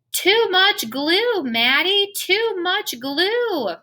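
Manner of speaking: high, slow, frantic squawk; a flustered teacher losing it over the mess; panicked high-pitched teacher scolding, stretched out. Acted. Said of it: "my teacher squawks".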